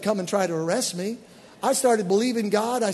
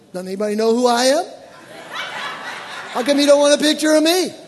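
joking mock outrage, louder and laughing; mock indignant; 6 semitones higher, 7 dB louder, faster than usual. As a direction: ham up your wounded pride, half laughing. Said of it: "I'm thinking".

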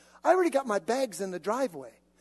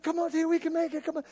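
urging; 7 semitones higher, much faster than usual. Retold or imitated. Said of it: "I said".

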